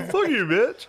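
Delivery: high, loud, hammed-up insult; mock angry yell. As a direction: throw a comic high-pitched curse. Imagines the street argument.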